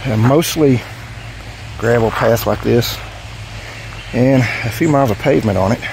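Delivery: winded after riding; breathless, catching air between words; out of breath. Real, not acted. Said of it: "Sorry, out of breath".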